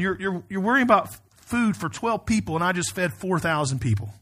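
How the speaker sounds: mildly exasperated, emphatic questioning; frustrated rebuke. Retold or imitated. Jesus to disciples who don't understand, mild frustration. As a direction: press the question with restrained frustration. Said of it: "that same kind of frustration".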